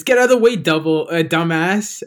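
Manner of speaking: loud, high-pitched mock yell; quoted angry yell. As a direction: yell the insult like an irate movie character. Quoting a driver yelling at Kirk.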